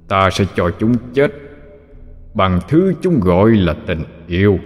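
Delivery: cold ancient demon lord; demon king voice. A narrator's reading. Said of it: "Quỷ vương nhìn một lượt rồi nói".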